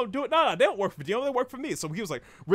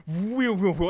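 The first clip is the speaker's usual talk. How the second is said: loud imitated whoosh of a zooming camera; zoom noise; 3 semitones higher, 7 dB louder, slower than usual. Reviewer mimics the anime's opening zoom shot, whooshing. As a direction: swoop the sound like a camera zoom.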